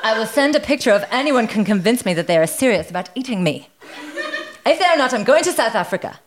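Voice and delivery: put-on brisk comic German accent. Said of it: "do it in a German accent".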